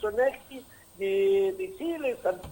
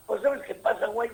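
a quick, light put-on Mexican accent, a touch higher; tossing off a playful Mexican accent for the host; 4 semitones higher than usual. Host asked for a Mexican, so a light mock Mexican accent. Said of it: "tenés que hacer un mexicano".

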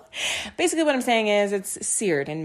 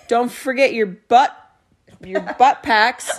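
slow, lightly voiced old grandpa; 2 semitones higher, 5 dB louder, slower than usual. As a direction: drag it out like an old man. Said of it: "he is an old grandpa".

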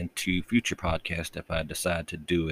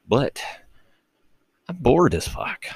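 pitched up, louder whine of boredom; mock complaining; 9 semitones higher, 3 dB louder than usual. Bored host complaining to listeners, a high whine.

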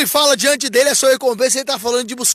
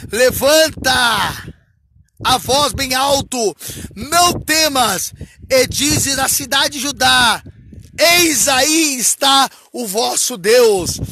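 slow, stretched scripture proclamation; declamação bíblica; much slower than usual. Acted. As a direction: proclaim it phrase by phrase, slowly. Declama o versículo. (proclamação lenta e solene)

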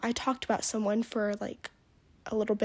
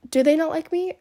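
higher, louder playful mock question; high mock wonder; 7 semitones higher, 8 dB louder than usual. Girl imagining people secretly want to be her, high playful question. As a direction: pretend they're all jealous.

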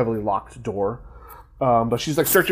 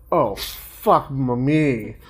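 retold exasperation; 2 semitones higher, slower than usual. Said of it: "she's like".

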